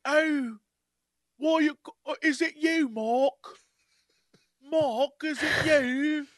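high, halting mock-British voice; terrible British accent. Host imitating an actor's hero to co-hosts, terrible British accent. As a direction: put on an awful hammed-up British accent. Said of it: "his terrible British, like".

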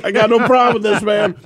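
laughing. Retold or imitated. Laughing retold reply.

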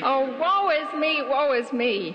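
hammed-up high wailing lament; tragic heroine sorrow. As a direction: moan it like a doomed heroine. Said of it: "that's a little melodramatic".

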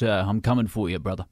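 murdery threat. Acted. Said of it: "That sounds very murdery".

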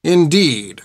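prim, clipped refusal; politely cold schoolmistress; stern nun voice. Acted. Hilda's curt reply.

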